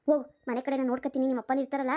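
low, brisk village aunt urging them off; an elderly aunt hurrying the young couple along; old aunt voice. Acted.

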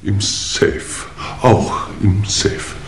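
slow, whispered, with a nervous laugh; embarrassed whispered laugh. Acted. Lord admitting to inspectors the dagger was locked up, nervous laugh. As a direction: laugh it off under your breath.

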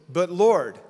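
loud mock plea to the Lord; urgent calling out. Voices man calling after the Lord.

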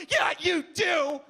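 loaded slow answer; pointed reply. Retold or imitated. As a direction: drag it out, you know exactly who I am.

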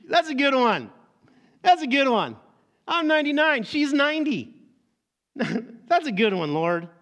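high, loud, scoffing through laughter; laughing disbelief. Acted. Abraham laughing off God's promise of a son, loud amused scoff. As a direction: laugh it off as a joke.

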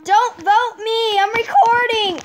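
slow crying shout; pleading cry. Real, not acted. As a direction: beg them loudly. Pleading not to be voted.

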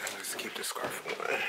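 talking around whitening strips; whitening strips in mouth. Real, not acted. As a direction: speak with strips on your teeth. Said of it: "That's why my voice sounds like this".

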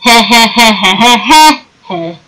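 evil chuckle. Real, not acted. Teasing chicken butt joke.

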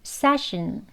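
이를 모으고 session; teeth nearly closed. Shown as a demonstration. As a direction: say session, barely parting the teeth. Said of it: "이를 거의 가까이 모아서".

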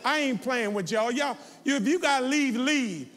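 high, loud preacher's scolding; fired-up pulpit reprimand, pitch and volume climbing; real angry rebuke. Real, not acted. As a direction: tell the congregation off at full voice. Scolds congregation for walking out.

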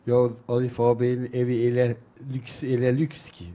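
lightly imitated Erzurum dialect with a slight lisp; a touch of thick-tongued Erzurum speech; Erzurum accent, lisping. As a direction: retell it as a lisping Erzurum local. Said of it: "Erzurum şivesi ve biraz da peltek konuşuluyor".

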